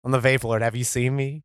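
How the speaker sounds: low dopey tough guy; dopey deep voice. Acted. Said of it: "I'm gonna try a character voice this week".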